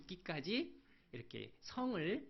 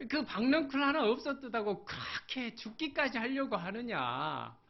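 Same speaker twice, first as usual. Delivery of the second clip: higher, louder scolding question; God's loud rebuke; 8 semitones higher, 6 dB louder than usual. Acted. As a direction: demand it of Jonah. Preacher voices God's rebuke. (요나를 크게 꾸짖는 하나님)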